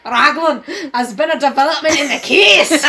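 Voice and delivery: put-on Scottish accent. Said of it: "Go on, go on, do it again".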